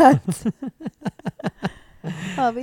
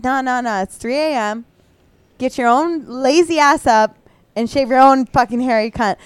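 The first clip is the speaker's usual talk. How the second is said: annoyed refusal; 3 semitones higher, 5 dB louder than usual. Retold or imitated. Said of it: "And he's like".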